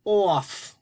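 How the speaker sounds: lightly voiced shy puppet greeting; a hint of a sleepy puppet saying hello; gentle puppet voice for the class; puppet Tony. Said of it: "Tony, say our first word".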